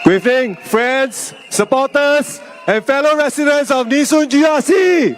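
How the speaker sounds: hoarse sore throat voice; strained throat, pushing through. Real, not acted. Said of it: "I'm having a sore throat".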